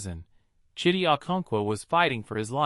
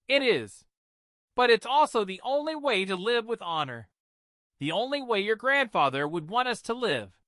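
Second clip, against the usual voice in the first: put-on mother telling old wisdom; 8 semitones higher than usual. A narrator's reading. Mother telling her daughter the grandfather's saying, solemn. Amara on honor.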